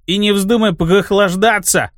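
slow fierce burred r, rolled at the back. Acted. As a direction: growl it with a throaty burred r. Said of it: "свирепо прокартавил Изи".

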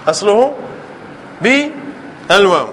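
slow, drawn-out بالواو to fix the point; slow emphasis. Shown as a demonstration. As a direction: drag out بالواو so it sticks. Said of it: "تدعو أصله هكذا". (نطق بطيء ممدود لكلمة بالواو)

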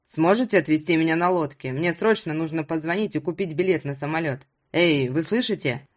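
lightly voiced Ruslan, impatient.

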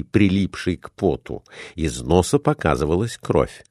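usual speaking voice

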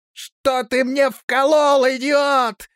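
high, loud, slow furious yell; jabbed patient yelling at the doctor, high and loud. A narrator's reading. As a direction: scream it at the doctor who stabbed you. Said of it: "закричал он".

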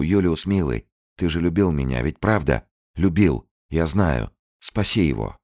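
high, loud desperate begging; a woman begging her former lover for help; pleading. Acted. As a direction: beg him to save her man.

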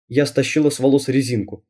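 usual speaking voice

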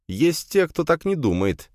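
high, sharp, cutting reply; sharp retort. A narrator's reading. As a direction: snap back at the old man. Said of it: "резко ответил я".

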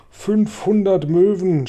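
high, loud, drawn-out call; triumphant shout. A narrator's reading. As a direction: shout the tally slowly and high. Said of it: "schrie James". (laut und gedehnt gerufen)

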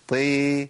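"طي" thinned toward a plain "tii"; weak t with long i; wrong light ṭ. Shown as a demonstration. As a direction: say the ط of "طي" too lightly. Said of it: "ما ينفعش".

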